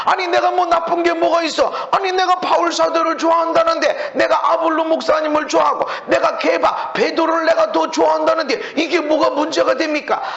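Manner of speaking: indignant protest. Retold or imitated. Pastor voicing a defensive member to the congregation, indignant protest. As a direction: play a member insisting he did nothing wrong.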